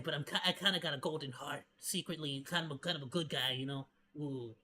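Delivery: low, soft, smug self-satisfied mumble; smug edgelord voice. Retold or imitated. Edgelord bragging about his secret golden heart, low smug. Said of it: "they'll be like".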